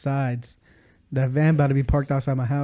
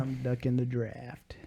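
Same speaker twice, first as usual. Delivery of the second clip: quiet aside; 11 dB quieter, slower than usual. Real, not acted.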